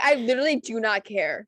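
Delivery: emphatic, amused replay of being mad; mock annoyed retort. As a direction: imitate your own fed-up outburst, half laughing. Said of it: "you got so mad".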